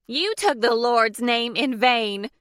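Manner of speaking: high, loud, slowed outraged shout; indignant shout. A narrator's reading. Deborah scolding Blair for cursing, shouting. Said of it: "Deborah shouted".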